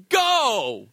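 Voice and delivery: half-shouted "Go" at a slow driver; mock road-rage yell. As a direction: yell "Go" from the car. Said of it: "You don't say it softly".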